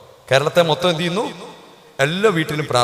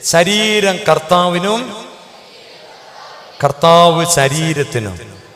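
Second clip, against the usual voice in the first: believing; 4 semitones higher, 4 dB louder, much slower than usual. Shown as a demonstration. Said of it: "വിശ്വസിച്ചേ".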